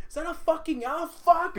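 startled yelp. Retold or imitated. Kids spotting owl on TV.

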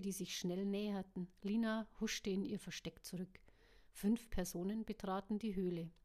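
steady audiobook reading with voiced characters; story narration. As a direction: read it like an audiobook. Audiobook reading before own chat.

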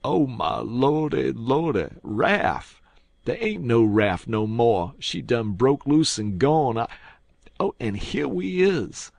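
high, loud, distraught lament; panicked wail. A narrator's reading. Jim finds the raft broke loose and gone, panicked wailing.

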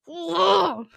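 disgusted ugh. Real, not acted. Podcaster reacting to ugly designer clothes, disgusted groan.

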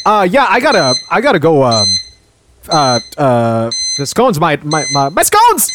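high, flustered panic over scones; rushing off in a panic; panicked. Acted. Acted skit, rushing off.

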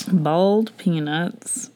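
"Boiled" said like "bald", very slowly; slow "bald" sound for "Boiled"; misheard Southern pronunciation. Retold or imitated. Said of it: "He thought they were bald".

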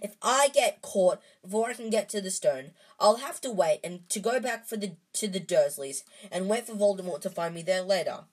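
defiant outburst to his friends; shouting. A narrator's reading. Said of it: "Harry shouted".

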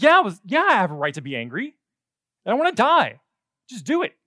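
full high scream of a man who wants to die. Acted. Jonah screaming at God that he wants to die. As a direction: yell it at God, furious and desperate. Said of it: "heard me scream that".

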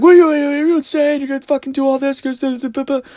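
high, frantic outburst; rapid-fire mock outrage; imitated yelling. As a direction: mimic an exasperated man yelling at his partner. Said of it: "then he's yelling at her".

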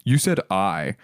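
lightly voiced girlfriend, teasing; a hint of girlfriend's accusing voice; imitating Amy. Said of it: "Your impression of your girlfriend".

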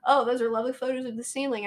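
dry sarcastic compliment. Retold or imitated. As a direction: say it with mock praise. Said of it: "responded sarcastically".

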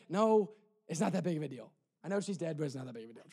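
low, soft imagined reassurance; hushed dismissal. Pretend. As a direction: play it down quietly, trailing very soft. Mocks a soothing reply Jesus avoided.

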